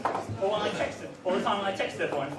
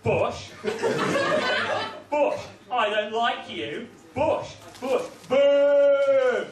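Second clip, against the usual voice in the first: mock earnest poem. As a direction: recite it like a solemn schoolkid poem. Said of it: "It goes".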